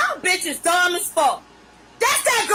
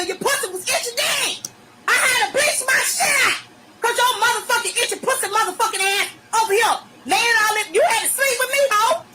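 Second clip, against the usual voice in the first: heated rant; 4 semitones higher than usual. Real, not acted. Ranting at daughter, pitch climbing.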